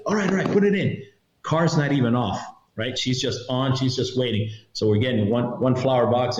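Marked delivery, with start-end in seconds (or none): 0.1-1.0 higher, rushed giving in; hurried woman. Retold or imitated. Woman letting them load the car, rushed and higher. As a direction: give in quickly, nervous. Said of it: "So she's like".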